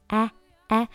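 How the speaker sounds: "哎" as an open English 'æ'; short, isolated wide 'æ' for "哎"; wide-open vowel. Shown as a demonstration. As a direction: drop the jaw for "哎", as if swallowing an apple. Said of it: "嘴巴张大".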